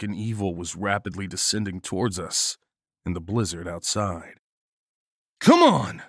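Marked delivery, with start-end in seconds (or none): 5.4-6.0 loud, high rallying shout; sharp shouted command, pitched high; urgent yell. A narrator's reading. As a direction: yell for them to run. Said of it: "I yelled".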